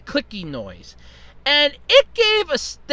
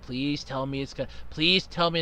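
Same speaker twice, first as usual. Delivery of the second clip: barely voiced plea, much lower and softer; hushed pleading; 10 semitones lower, 9 dB quieter than usual. Listening at the basement door for dripping, hushed plea. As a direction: beg under your breath. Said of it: "I'm like".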